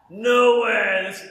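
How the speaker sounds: high, loud, drawn-out delighted hello; excited greeting. Retold or imitated. Sharon answering his call, thrilled to hear him. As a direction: greet him like it's a wonderful surprise.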